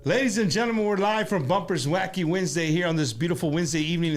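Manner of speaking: booming show host intro; lucha libre announcer. Acted. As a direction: announce it to the crowd. Opens the live show.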